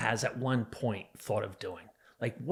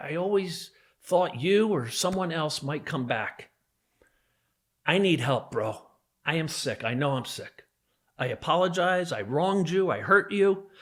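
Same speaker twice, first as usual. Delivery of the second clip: earnest begging, building louder through the confessions; imagined pleading apology; 3 semitones higher, 4 dB louder than usual. Pretend. Abuser begging his victim for mercy, imagined pleading.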